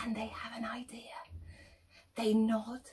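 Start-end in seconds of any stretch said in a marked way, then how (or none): 0.0-1.2 hushed, secretive whisper; whispered narration. A narrator's reading. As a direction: tell it like a secret. Animals plotting in secret.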